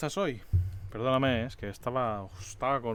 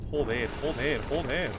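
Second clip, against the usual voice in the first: louder swearing in frustration; frustrated cursing; 5 dB louder, slower than usual. Real, not acted. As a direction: curse it out, annoyed.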